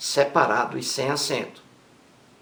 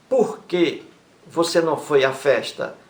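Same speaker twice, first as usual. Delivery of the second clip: "Por que" lifted, then a pause before the rest; stress on Por que. Shown as a demonstration. Teacher marks "Por que" at the start for students. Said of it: "O porquê aí no início".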